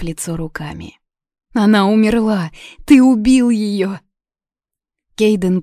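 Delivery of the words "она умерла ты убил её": hysterical sobbing. A narrator's reading. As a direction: accuse him through tears. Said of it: "зарыдала Юна". (истерично, сквозь рыдания)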